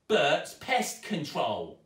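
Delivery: slow, loud read-out; stepmother reading. A narrator's reading. Stepmother reading the van sign, slow and loud. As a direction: spell it off the van slowly. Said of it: "she read".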